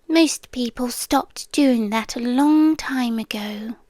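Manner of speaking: intimate, lightly voiced otherworldly captor; a seductive haunted-house presence making a deal; captive spirit pleading. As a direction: coax the listener to stay, half whispered. Captor entity bargaining with listener.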